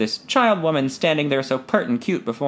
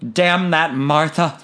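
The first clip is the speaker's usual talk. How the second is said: muttered curse; 3 semitones higher, 4 dB louder, slower than usual. A narrator's reading. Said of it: "I cursed to myself".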